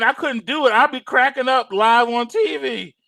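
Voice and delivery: usual speaking voice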